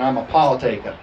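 playful New Jersey "Paul taker"; New Jersey accent. Shown as a demonstration. Pastor playing on "partakers" for the church, New Jersey accent. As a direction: drop the r's like New Jersey. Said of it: "say it in a New Jersey accent".

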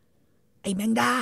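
high, very slow insult; wife scolding her husband; mock scolding. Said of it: "เมียด่า".

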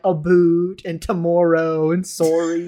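mock Canadian accent on rounded vowels. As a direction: lightly imitate a funny Canadian accent. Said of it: "everyone has that funny accent where they're like".

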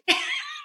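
very high squeak of a laugh. Real, not acted. Host squeals with laughter at the story.

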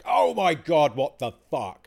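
loud, high exasperated yell; mock outburst of self-directed fury; almighty shout. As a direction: let it rip at yourself in frustration. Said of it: "an almighty shout of just".

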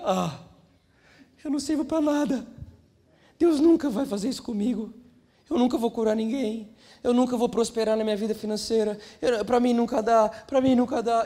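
lightly hammed-up lament of defeat; mock self-pity. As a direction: complain like someone who has given up. Acted self-pity after failed healing.

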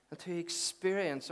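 slow, weighty experience; deliberate stress. Shown as a demonstration. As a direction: lean into the word experience, slowly. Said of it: "I want to say that word intentionally".

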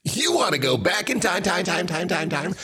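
hyped retro TV ad read; commercial announcer voice. Pretend. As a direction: sell it like an eighties commercial. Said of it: "What does that sound like?".

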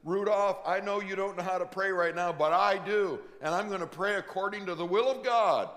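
loud, reassuring voice of the Spirit; Holy Spirit voice. Pretend. Holy Spirit reassuring the struggling believer, loud and warm. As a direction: speak as the comforting Spirit. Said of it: "and he says".

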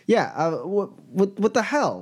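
high, stammering disbelief; acted bewilderment. Boss takes in the mess, stammering and baffled. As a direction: falter upward in baffled dismay.

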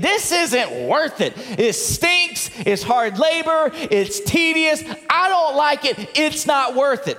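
emphatic, disgruntled griping; grumbling complaint. Acted. Preacher voices a minimum-wage worker's thoughts, grumbling. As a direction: voice a fed-up worker, punching each complaint. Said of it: "he's probably thinking".

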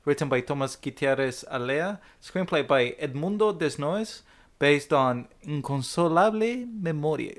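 names said in a Latin American Spanish accent. Shown as a demonstration. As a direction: roll the Spanish names like a native speaker. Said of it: "I was using my Latin American Spanish accent".

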